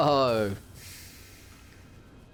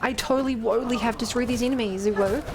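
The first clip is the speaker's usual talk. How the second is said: uwu voice. Acted. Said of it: "I have to do an Uwu boy voice".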